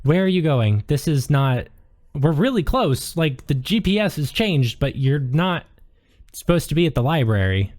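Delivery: lightly acted talking navigation app; phone assistant character. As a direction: voice a GPS objecting to the detour. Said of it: "your phone chimes and it says".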